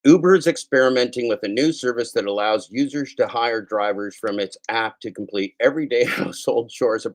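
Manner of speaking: reading the news item straight. Acted. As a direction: read the headline like a newscaster. Reads news item on air.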